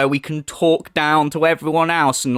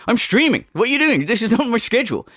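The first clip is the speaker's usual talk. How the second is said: mock indignant streamer; 5 semitones higher, faster than usual. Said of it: "He treats his mum like he treats Keemstar".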